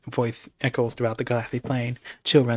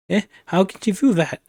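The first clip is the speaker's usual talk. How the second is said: higher, louder alarmed cry; frightened shriek; 7 semitones higher, 6 dB louder than usual. A narrator's reading. Villain watching the spell form, frightened shriek. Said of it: "Poland shrieks".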